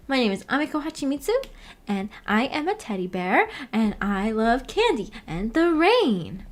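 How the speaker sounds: a lightly voiced bubbly girl; Amiko impression. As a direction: sweetly chirp her introduction. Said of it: "Is that how she talks?".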